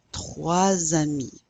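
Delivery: Trois amis said slowly, z linking into amis; slow repeat of Trois amis with liaison; model pronunciation. Shown as a demonstration. Teacher repeats the phrase slowly for the class.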